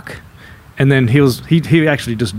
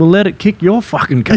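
indignant retort; 6 semitones higher than usual. Retold or imitated. His indignant retort, retold.

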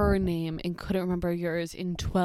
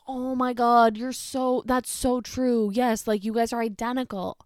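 lightly imitated daughter, higher; gushing daughter; 3 semitones higher than usual. Daughter agreeing with her mother about a lookalike, imitated gushing. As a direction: agree emphatically, drawing out the words a little. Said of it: "then the daughter's like".

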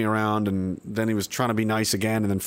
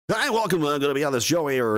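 radio voice; 2 semitones higher than usual. Pretend. Streamer showing chat his radio voice, hammed-up host greeting. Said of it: "the radio voice in once during the interview".

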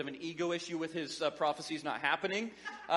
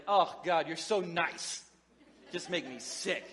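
mock disgust. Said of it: "They're like".

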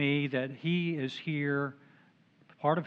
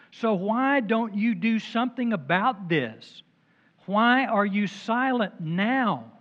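higher, insistent complaint to God; complaining prayer; 4 semitones higher than usual. Acted. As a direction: plead and protest upward. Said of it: "that's some pretty serious whining".

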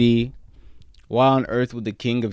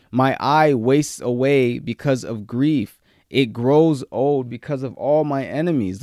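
slow, emphatic psalm reading; psalm proclaimed with drawn-out words; impassioned scripture reading; 3 semitones higher, 4 dB louder than usual. Acted. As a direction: read the lament out slowly and firmly. Reads psalm aloud.

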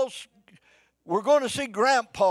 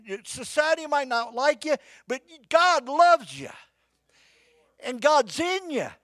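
loud, high and slowed; preached climax; 7 semitones higher, 4 dB louder than usual. Acted. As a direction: lift it up and hold it.

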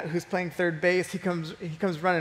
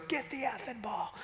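higher but much softer, held-back yell; mock coach yell; 4 semitones higher, 12 dB quieter than usual. Coach retold yelling, held back.

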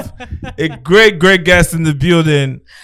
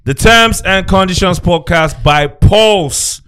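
ringmaster. Acted. Podcast intro, showman announcement.

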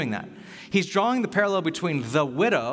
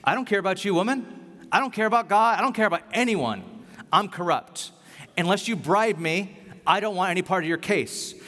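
a raised, dismissive judge voice, only lightly voiced; corrupt judge; 3 semitones higher than usual. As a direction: brush her off like a judge who cares for nobody. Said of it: "Even when the judge wanted to ignore her".

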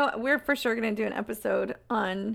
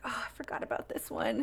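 whisper; 12 semitones lower, 7 dB quieter than usual. Retold or imitated. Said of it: "I was like".

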